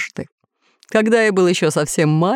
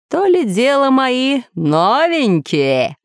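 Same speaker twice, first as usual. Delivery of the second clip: slow, higher, dreamy musing; 6 semitones higher, much slower than usual. Acted. Lord dreaming aloud of his new monsters, slow and dreamy. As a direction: savour the thought of new monsters. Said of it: "мечтательно сообщил он".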